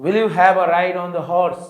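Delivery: slow, deliberate read-aloud for a class; slow story reading. Acted. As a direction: read each English phrase very slowly and clearly. Teacher reads story text aloud. (धीमी गति से कहानी पढ़ना)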